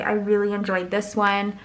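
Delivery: muffled, mouth inside a cup; talking into a cup. Real, not acted. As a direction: speak into the cup. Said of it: "Sorry, I was, like, talking into the cup".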